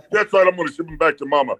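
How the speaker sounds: hammed-up wrestler threat, climbing to a high shout; wrestling promo. Shown as a demonstration. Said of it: "do the wrestling thing".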